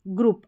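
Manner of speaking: ग्रुप with a short, quick "u"; short "u" sound. Shown as a demonstration. Teacher contrasts it with long vowels, short "u". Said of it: "ये थोड़ा short sound pronounce हो रहा है".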